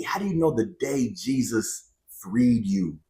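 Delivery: hushed whisper of a doubting viewer. Pretend. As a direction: breathe the question out unvoiced. Imagined viewer asking, whispered.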